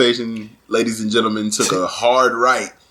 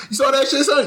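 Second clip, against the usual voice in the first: laughing excitedly; 10 semitones higher than usual. Retold or imitated. Friends laughing after fake fight.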